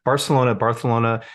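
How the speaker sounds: "Barcelona" first with an s, then with a lisped th; "Barcelona" said as Bar-s-elona, then as Bar-th-elona; Barcelona both ways. Shown as a demonstration. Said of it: "I've heard the debate".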